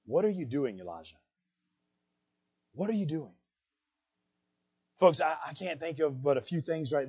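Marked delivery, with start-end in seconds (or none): 0.1-1.2 softly voiced imitation of a whisper; hushed question, name dropping low and soft; small whisper. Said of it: "he heard this small whisper". 2.7-3.3 soft, hushed question imitating God's whisper; small whisper. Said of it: "he heard this small whisper".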